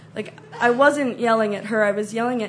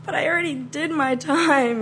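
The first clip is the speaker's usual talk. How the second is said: higher-pitched protest; arguing; 5 semitones higher than usual. Retold or imitated. Traveller arguing with customs officer over the fee, protesting. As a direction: plead your case, aggrieved. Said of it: "I was ready to argue it".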